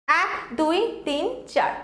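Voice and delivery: counting off each syllable. Shown as a demonstration. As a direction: tick off the syllables one by one. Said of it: "স্যাটিসফ্যাকশন".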